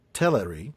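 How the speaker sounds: "Teleri" with the stress on "TEL"; stress on first syllable. Shown as a demonstration. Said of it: "the first syllable is the stressed one".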